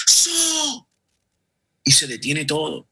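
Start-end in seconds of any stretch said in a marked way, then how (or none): 0.1-0.9 very high, louder commanding halt. Acted. Imperial guard halting the caravan, loud high call. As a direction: stop the whole caravan with one word. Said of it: "una voz bien fuerte que dice".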